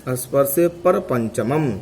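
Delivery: slow, measured chant of the sutra; स्पर्शे पर पंचमम recited slowly, word by word; slow sutra recitation. Shown as a demonstration. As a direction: spell the rule out slowly for the class. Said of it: "अगला सूत्र है".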